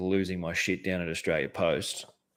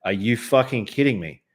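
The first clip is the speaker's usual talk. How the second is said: higher, louder indignant question; incredulous anger; 4 semitones higher, 5 dB louder than usual. Retold or imitated. Customer confronts pale manager, retold incredulous anger. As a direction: throw the question out in retold disbelief. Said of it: "fucking white as a ghost".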